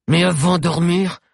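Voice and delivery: high, loud grating savage. A narrator's reading. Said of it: "d'une voix grinçante".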